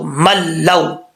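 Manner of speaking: मल लौ joined slowly, no nasal hum; idgham without ghunna. Shown as a demonstration. Teacher shows how to join मल लौ, slow. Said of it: "तो इसको कैसे पढ़ेंगे".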